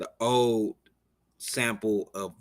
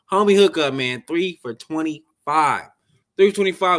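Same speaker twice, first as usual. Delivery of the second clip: hyped pitch; 6 semitones higher, 8 dB louder than usual. Real, not acted. Host pitching deal, hyped.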